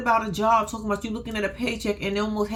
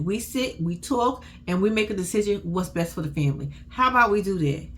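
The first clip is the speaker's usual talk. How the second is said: calm reassuring. Shown as a demonstration. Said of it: "is simply by saying".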